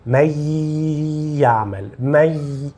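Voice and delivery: من يعمل with an oral y glide; no nasal sound. Shown as a demonstration. Teacher shows idgham lacking ghunna, oral y in من يعمل. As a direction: keep the y of من out of the nose. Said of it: "Não tem nenhum som nasal".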